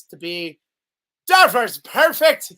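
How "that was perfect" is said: mock praise. Guest mocking praise.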